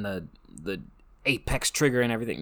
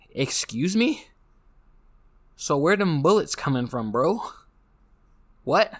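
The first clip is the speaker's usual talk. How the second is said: high mock disbelief, louder at the end; incredulous; 4 semitones higher, 3 dB louder than usual. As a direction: scoff at the impossible revolver. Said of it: "it's just like".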